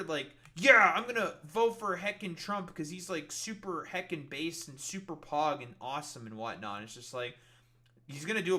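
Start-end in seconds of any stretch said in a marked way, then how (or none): 0.6-6.8 eager, loud start that eases off; mock podcast bro. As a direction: mockingly gush like a hyped-up bro. Mocks podcast bros' enthusiasm.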